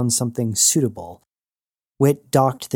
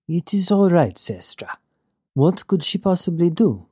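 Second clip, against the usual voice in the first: higher, calm and soothing; Knox's voice; 7 semitones higher than usual. Acted. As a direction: soothe her, easy. Knox soothing.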